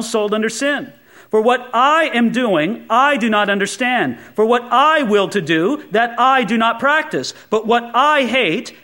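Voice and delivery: reading that leans on every I; mock-emphatic scripture reading; exaggerated reading. Shown as a demonstration. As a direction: overplay the I's to make the point. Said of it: "a little bit of an exaggerated reading".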